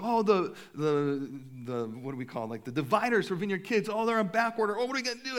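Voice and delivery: high, loud flustered self-quote; mimicking his own frantic worry; mock panic. Acting his own panic about dividers.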